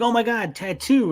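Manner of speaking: high-pitched imitation of awed onlookers; hammed-up gasping wonder; mock amazement. Voicing onlookers amazed at a tattoo.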